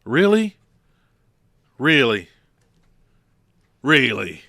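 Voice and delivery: mock The Miz's Really call. Podcaster imitating The Miz's catchphrase. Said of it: "Now I'm gonna sound like The Miz".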